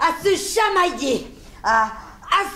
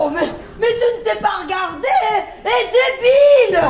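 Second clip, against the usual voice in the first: mock angry shout; 2 semitones higher than usual. Staged fake quarrel, laughing.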